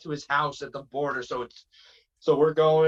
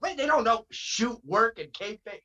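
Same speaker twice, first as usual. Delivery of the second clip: high, put-on Cornette rant, much higher than his own voice; ranting like a wrestling manager, pitched way up; 9 semitones higher than usual. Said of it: "Now I sound like Cornette".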